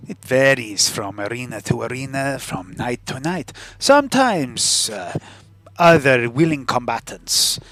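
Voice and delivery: put-on foreign-accented fight promoter; lightly theatrical accented character voice; accented arena boss. Game character explains the fights.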